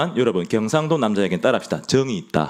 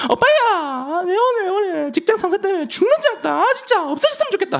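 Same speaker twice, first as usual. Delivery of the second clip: put-on much higher whiny girlfriend in Gyeongsang dialect. Gyeongsang girlfriend complains about her boss, high whine. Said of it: "경상도 남자들은".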